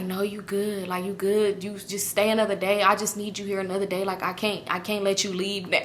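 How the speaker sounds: hushed imitation of a clingy lover; gentle pleading. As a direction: quietly coax her to stay. Retold lover pleading with her to stay.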